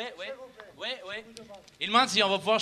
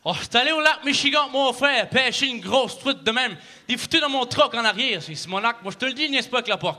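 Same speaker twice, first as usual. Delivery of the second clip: slower Québécois accent. Shown as a demonstration. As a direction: repeat the Quebec accent more slowly for the crowd. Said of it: "Un, un peu plus lentement?".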